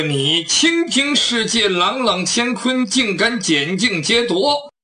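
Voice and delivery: slow, measured lines of a stern swordsman; righteous hero scolding. Acted. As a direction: lay down the law word by word. Hero scolds the robber formally. (侠客慢声正色斥责)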